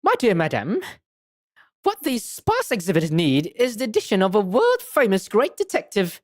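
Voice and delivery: showy detective making his sales pitch; lightly voiced grandiose detective, swooping pitch; theatrical great detective. Detective pitching himself to the madam, theatrically.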